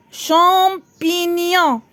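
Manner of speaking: "Champignon" slowly stretched, each syllable held; slow teacher's sounding-out of "Champignon"; drawn-out syllables. Shown as a demonstration. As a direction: linger through Cham, pi, gnon in "Champignon". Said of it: "À la fin".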